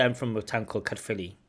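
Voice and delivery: Caerphilly said fast and run together; rushed Caerphilly. Shown as a demonstration. Teacher shows the unclear way to say Caerphilly, rushed. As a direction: rattle off Caerphilly quickly. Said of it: "I overpronounce it".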